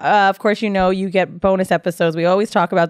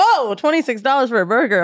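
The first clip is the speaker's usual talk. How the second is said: higher, exaggerated astonished "whoa"; mock shock; 5 semitones higher than usual. Imitating guest opening the menu in New York, mock shock. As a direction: react aghast, mimicking a cheapskate.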